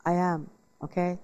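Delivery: a hint of a wry admission; rueful admission. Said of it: "And I went".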